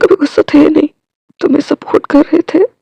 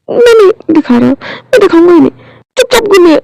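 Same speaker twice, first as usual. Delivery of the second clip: firm order; 5 semitones higher than usual. Acted. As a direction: insist through tears. Tearful firm order to turn.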